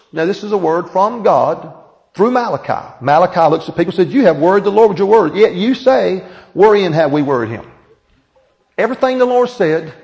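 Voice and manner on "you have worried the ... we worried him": stern rebuke. Acted. Malachi confronting the people.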